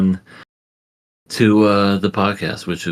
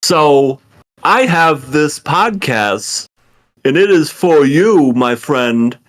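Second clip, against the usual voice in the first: sleazy salesman; 9 semitones higher, 5 dB louder, slower than usual. Pretend. Hammed-up pitch to a guest.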